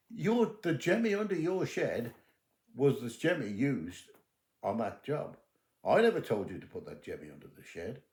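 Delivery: retold stern dressing-down; firm confrontation. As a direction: lay it out forcefully, point by point. Detective confronts Terry, retold.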